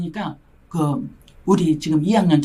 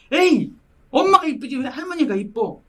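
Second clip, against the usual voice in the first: dismissive tease; 5 semitones higher than usual. Retold or imitated. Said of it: "내가 그랬죠".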